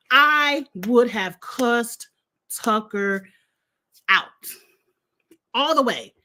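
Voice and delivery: word by word, with pauses; slow, emphatic. Real, not acted. Viewer saying what she'd do to a housemate, slow and emphatic. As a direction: draw out each word as a deliberate boast. Spells out her threat word by word.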